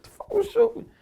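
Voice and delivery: imitating his own alarm when shot; mock frantic yell; retold panicked yell. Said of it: "I'm like".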